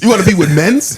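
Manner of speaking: mock London slang, rising; london roadman accent. Mocking the roadman line.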